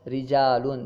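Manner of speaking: "رجالن" with a light, thin r. Shown as a demonstration. Teacher contrasts two words, ra of "رجالن" kept thin. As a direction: keep the opening r of "رجالن" slender. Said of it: "رجالن میں باریک پڑھ رہے ہیں".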